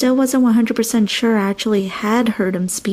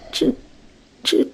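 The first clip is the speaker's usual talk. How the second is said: frightened squeak; 4 semitones higher, slower than usual. A narrator's reading. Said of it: "I squeaked, shuddering".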